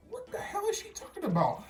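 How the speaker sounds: high, laughing disbelief; incredulous laughing. Retold or imitated. Venting to viewers about the manager's call, laughing in disbelief.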